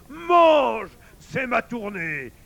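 high, loud gloating invitation; sneering wolf. A narrator's reading. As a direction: crow the first word, then jeer. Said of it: "ricana l'autre". (loup qui ricane, aigu et fort)

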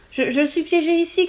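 panicked loud call from the mirror; shouting. A narrator's reading. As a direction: shout to be heard over the other voice. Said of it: "crie Léon".

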